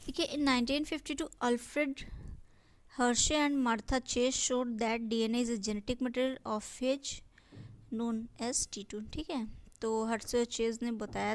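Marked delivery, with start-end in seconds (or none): 0.3-9.0 reading the English line out slowly, word by word; slow textbook reading. Shown as a demonstration. Teacher reading the textbook aloud to students, slow dictation. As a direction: spell it out for the class like dictation.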